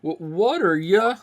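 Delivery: high, loud Southern country gal; southern accent. Acted. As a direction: belt it out like a bubbly Southern gal. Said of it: "that southern accent".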